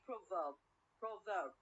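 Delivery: proverb stressed on PRO; stress on first syllable. Shown as a demonstration. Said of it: "from the first syllable".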